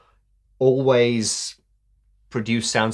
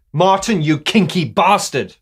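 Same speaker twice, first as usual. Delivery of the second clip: high, loud, gleeful teasing; amused playful name-calling; mock outrage; 7 semitones higher, 9 dB louder than usual. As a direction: exclaim it on the brink of cracking up. Mock-scolds the singer, breaking into laughter.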